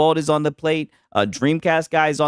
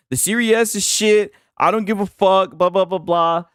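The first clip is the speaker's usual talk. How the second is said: mock quote; 4 semitones higher than usual. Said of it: "you said".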